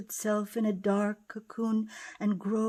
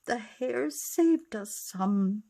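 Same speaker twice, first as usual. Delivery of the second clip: relieved sigh; 2 semitones higher than usual. Acted. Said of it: "they sighed".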